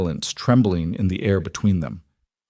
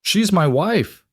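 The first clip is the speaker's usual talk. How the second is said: much higher, slow, biting anger; sharp and angry; 11 semitones higher, slower than usual. A narrator's reading. Husband warning the outlaw off his wife, sharply. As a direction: bite off each word in anger. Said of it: "Caleb said sharply".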